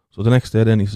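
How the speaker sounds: ordinary delivery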